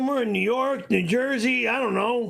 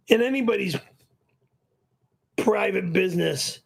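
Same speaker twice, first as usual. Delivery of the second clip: ordinary talk, nothing marked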